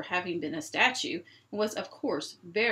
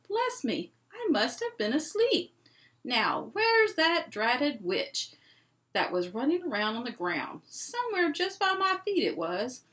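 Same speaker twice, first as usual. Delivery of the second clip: lightly voiced giant, high and bemused; a hint of a drowsy, puzzled giant; waking giant; 5 semitones higher, 3 dB louder than usual. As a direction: giant muttering just after waking up. Giant just woken from stone.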